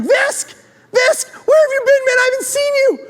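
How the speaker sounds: hammed-up bro yelling across the hall; mock jock greeting. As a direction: shout it like a surprised frat jock. Jocks greeting him in hall.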